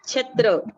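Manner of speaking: छत्र said slowly with a clear aspirated छ and a rolled त्र; teacher's model of छत्र; clear chhatr. Shown as a demonstration. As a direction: stretch out छत्र, sounding the त्र cluster. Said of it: "का उच्चारण".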